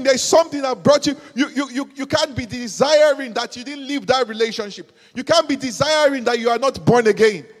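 loud, insistent divine rebuke; booming voice of God; God's voice, preached loud. Acted. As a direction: thunder it as God pleading. Voicing God at full force.

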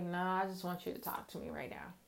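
hushed, quick, easygoing God reply. Retold or imitated. God answering her casually, soft and quick. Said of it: "God's like".

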